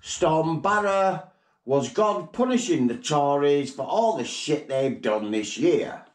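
lightly voiced Queen with a put-on royal tone; mock the royal Christmas broadcast; parody Queen's speech. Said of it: "We interrupt this programme for the Christmas broadcast".

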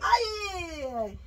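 crying out in pain. Acted. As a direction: wail ay ay in pain. Exercise hurts, crying out.

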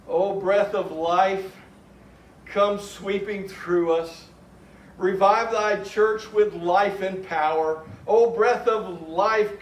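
slow, prayerful recitation of a hymn; recited hymn. Acted. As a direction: read each line like a prayer, unhurried.

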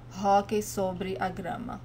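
hockey with the English-style H sounded, then Portuguese; hockey keeps its H before sobre a grama; H pronounced. Shown as a demonstration. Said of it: "you can also hear".

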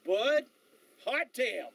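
imitated West Texas accent, savouring each word; Sam Elliott. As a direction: exclaim it like a West Texan, with pauses. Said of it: "in that West Texas accent".

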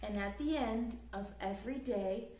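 lively, sing-song storybook reading; reading to children. A narrator's reading. Teacher reading a picture book aloud to children, lively storytelling. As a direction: read it like bedtime story time for little ones.

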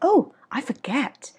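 high slow "oh", then "forget" gliding down; English sliding intonation. Shown as a demonstration. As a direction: stretch "forget" in a smooth English slide. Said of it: "forget nghe hay hơn". (đọc "forget" trượt kiểu Anh)

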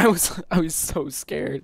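laughing through the words, slowed. Real, not acted. Laughing after the teammate pulls him off. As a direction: giggle it out, slowed.

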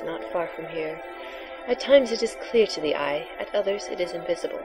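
hushed mystical seer; breathy oracle voice. Acted. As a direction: softly intone the prophecy. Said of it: "your breathy, sexy voice for the oracle".

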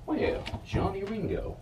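a hint of Doc Holliday drawling the taunt; movie quote. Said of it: "One of the best movies ever".

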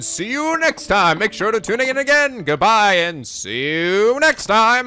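cheesy radio host sign-off. Acted. Reading the host's sign-off.

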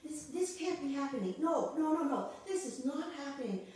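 a hint of someone stunned by bad news, pleading; disbelief at bad news. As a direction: refuse to accept the news. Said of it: "something happens to us".

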